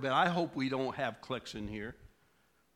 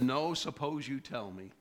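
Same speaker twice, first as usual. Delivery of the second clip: bad attitude; 2 semitones lower than usual. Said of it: "can you tell the attitude".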